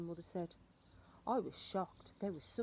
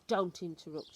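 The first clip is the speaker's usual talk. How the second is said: louder, sharp rebuke; stern grandmother; 7 dB louder than usual. Acted. Grandmother cuts off the boy's objection, sharply. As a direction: snap it like a strict granny.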